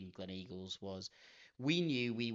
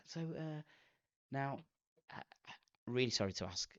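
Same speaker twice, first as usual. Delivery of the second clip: retold posh voice. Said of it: "when you're trying to be posh".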